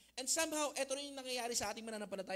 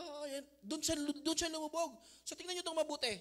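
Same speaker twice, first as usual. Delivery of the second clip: usual speaking voice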